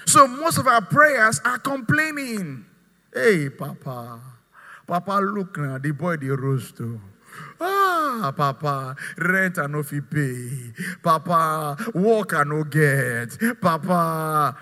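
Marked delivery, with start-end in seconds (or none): 3.1-14.6 whining complaint. Retold or imitated. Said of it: "what is he doing? Complaining".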